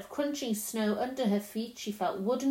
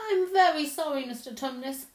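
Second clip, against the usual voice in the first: put-on pleading girl; 5 semitones higher, 4 dB louder than usual. A narrator's reading. Lucy apologizes, asks to go.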